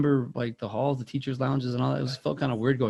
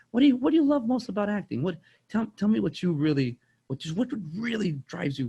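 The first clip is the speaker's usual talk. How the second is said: eager imitated Winkler; 8 semitones higher than usual. Winkler eagerly questioning the speaker.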